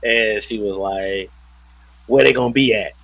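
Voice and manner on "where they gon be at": louder, slangy AAVE line; AAVE, punched out as an example; mom teaching Ebonics. Retold or imitated. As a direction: imitate a mom modelling Ebonics for her kid. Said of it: "trying to teach her Ebonics".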